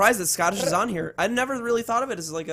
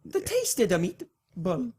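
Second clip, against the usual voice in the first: slow, soft mock Italian; Italian accent; 2 semitones higher, 6 dB quieter, slower than usual. Co-host failing at Italian, slow Italian accent. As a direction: drag it out in stage Italian.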